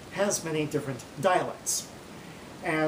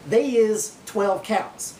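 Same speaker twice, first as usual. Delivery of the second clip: slow, deliberate gloss; 4 semitones higher, 5 dB louder, much slower than usual. Shown as a demonstration. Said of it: "The first one, it means".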